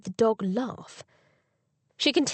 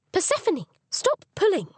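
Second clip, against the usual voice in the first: raised voice calling the dog; 10 semitones higher than usual. Acted. Dog pulling on the leash.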